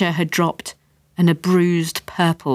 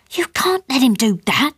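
higher-pitched, agitated protest; mother's raised-pitch objection; voice up a notch; 7 semitones higher than usual. A narrator's reading. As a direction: protest with your voice rising. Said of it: "voice going up a notch".

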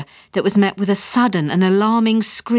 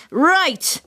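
roared; 10 semitones higher than usual. A narrator's reading. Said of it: "roared Tony".

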